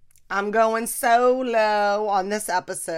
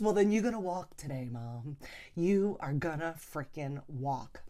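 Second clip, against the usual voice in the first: firm ultimatum; 4 semitones lower, 6 dB quieter than usual. Retold or imitated. Daughter laying down law to mom.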